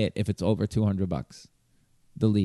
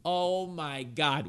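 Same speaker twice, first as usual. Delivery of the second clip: slow, much softer "oh my God" in disbelief; quiet dismay; 3 semitones higher, 10 dB quieter, much slower than usual. Retold or imitated. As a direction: let it sink out slowly, almost under your breath. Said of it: "I'm like".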